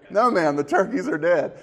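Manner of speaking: hammed-up repeat of the butcher's line; punchline repeated. Shown as a demonstration. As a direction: hit the punchline again with a grin. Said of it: "repeating the punchline".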